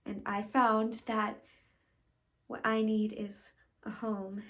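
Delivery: measured stage confession; dramatic monologue. Acted. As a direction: admit each need separately, with pauses. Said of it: "I'll be doing a monologue".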